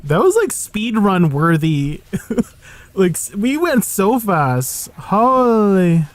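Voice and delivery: excited. Real, not acted. Thrilled by the fast run.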